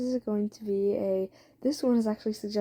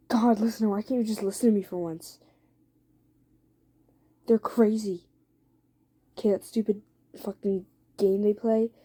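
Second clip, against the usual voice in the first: acted exasperation, voice slightly raised. Jason argues with his partner over Eddie, raised voice. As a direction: argue back with mounting insistence. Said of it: "Jason starts to raise his back".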